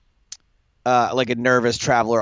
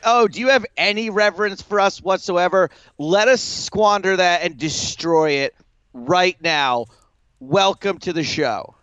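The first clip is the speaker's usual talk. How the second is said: mock welcome; 5 semitones higher than usual. Mocking the eager young fan.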